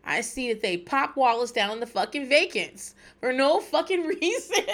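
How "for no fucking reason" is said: rising, tearful half-laughing protest; near tears. Real, not acted. Podcaster recalling Wallace's death in The Wire, near tears. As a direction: let the last word stretch into a tearful laugh. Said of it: "I'm gonna fucking cry".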